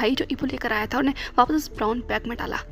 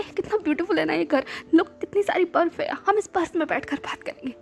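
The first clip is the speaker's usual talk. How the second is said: put-on drunk tearful lover; 4 semitones higher than usual. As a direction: beg him through drunken tears. Drunk Ibo rambling, tearful.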